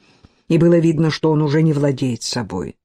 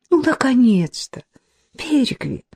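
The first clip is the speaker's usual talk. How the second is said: a high, relieved cry of a name; relieved exclaim; 8 semitones higher than usual. A narrator's reading. Fenella, relieved when he arrives, exclaims high. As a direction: call out to him with relief. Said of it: "с облегчением воскликнула".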